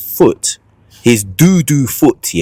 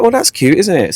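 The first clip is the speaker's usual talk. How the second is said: mock cute; 8 semitones higher than usual. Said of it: "I'm like".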